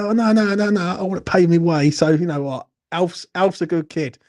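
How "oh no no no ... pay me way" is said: higher, louder mock protest from Alf; quoting Alf. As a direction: play the skint student refusing the money, a bit louder. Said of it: "He went".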